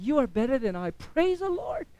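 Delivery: mock humility, rising high on the praise; sarcastically pious; sarcastic. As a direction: feign humble admiration, ending high and light. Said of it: "I'm being very sarcastic".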